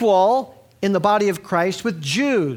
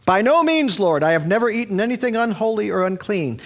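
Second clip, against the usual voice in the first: Peter refusing; 4 semitones higher than usual. Retold or imitated. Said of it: "Peter answers the Lord".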